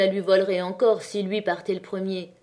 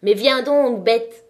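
loud, higher rough growl of a command; 4 semitones higher, 7 dB louder, slower than usual. Acted. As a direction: bark at her to come, irritated. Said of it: "il grogna".

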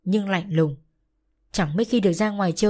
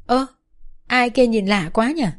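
pouting tease; 4 semitones higher, 4 dB louder than usual. Acted. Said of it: "Cái Hiền trù cái miệng ra".

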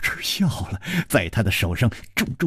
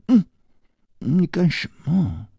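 higher-pitched, playful scolding; coquettish pouting; 6 semitones higher than usual. A narrator's reading. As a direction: pout and scold him teasingly. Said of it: "石秀云娇嗔地说". (娇嗔地责怪)

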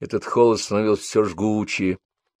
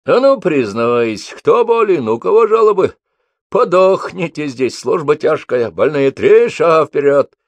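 angry shouting; 7 semitones higher, 6 dB louder than usual. A narrator's reading. Angry sergeant bullies recruits.

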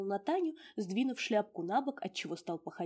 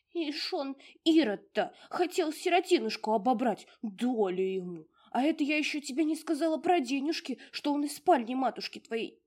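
high, loud scolding outburst; a tiny house spirit in a loud huff; indignant house spirit; 7 semitones higher, 7 dB louder than usual. Acted. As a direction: rail against the thieving uncle. Domovushka scolding uncle.

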